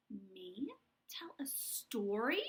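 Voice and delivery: breathy whispered question; whispered surprise. Acted. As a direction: whisper it, amazed.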